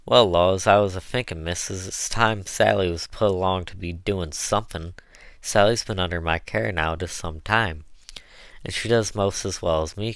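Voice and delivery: Southern dialect, eager and chatty; a hint of an earnest old servant; lively dialect pitch to the mistress; lightly voiced Chloe, folksy cook.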